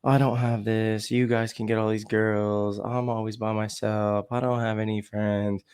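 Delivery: mock self-pitying drone, slow and drawn out; woe-is-me droning. Friend always feeling sorry for himself, imitated as a slow moaning drone. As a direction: imitate a friend's monotonous pity party. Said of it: "constantly drone on about".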